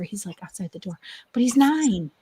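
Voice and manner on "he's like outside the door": whispering on the phone. Real, not acted. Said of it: "I have to whisper".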